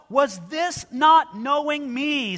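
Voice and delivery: preacher booming the Lord's question; ringing proclamation. Acted. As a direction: call it out slowly from the pulpit. Climax of the scripture reading.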